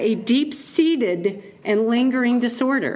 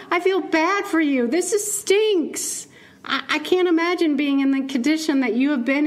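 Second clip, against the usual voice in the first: higher-pitched, overdone pity; gushing sympathy; 5 semitones higher than usual. Acted. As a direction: pour out sympathy for someone in a bad way. Imagines pitying the sick man.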